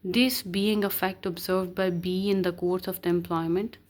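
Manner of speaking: slow, deliberate reading of legal text; measured recital of the law; reading the statute. Acted. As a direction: read each word out slowly like dictation.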